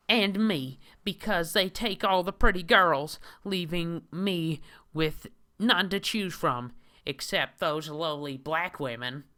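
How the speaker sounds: high, loud mocking nerdy whine; hammed-up high whiny man voice; Christian Weston Chandler. Reads the comic hero's own words.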